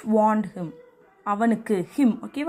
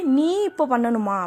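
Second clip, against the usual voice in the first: "நீ" drawn out and stressed; slower than usual. Shown as a demonstration. Teacher asking whether it is you who must, stress on "நீ". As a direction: lean on the first word "நீ". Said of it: "யூவை நம்ம stress பண்ணணும்".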